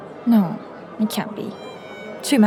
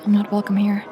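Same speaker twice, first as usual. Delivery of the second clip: hushed self-talk. Acted. Lyra alone, fears she is watched.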